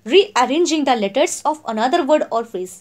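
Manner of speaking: each word spaced out for notes; slow, clear classroom dictation. Shown as a demonstration. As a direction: read it out slowly so students can write. Repeats definition for notes.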